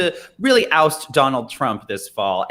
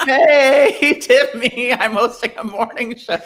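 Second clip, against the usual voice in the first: Katie Couric impression; 8 semitones higher, slower than usual. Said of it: "Can you imagine, like, Katie Couric".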